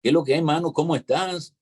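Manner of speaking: high, lively Cuban street greeting; a casual Cuban-accented hello to a friend. Retold or imitated. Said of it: "para mí el acento neutral es".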